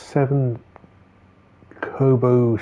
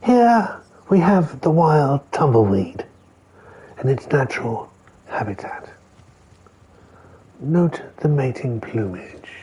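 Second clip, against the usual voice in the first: hushed, reverent wildlife narrator; nature documentary; 3 semitones higher than usual. Pretend. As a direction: narrate the tumbleweeds like a wildlife film. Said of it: "repeats in documentary voice".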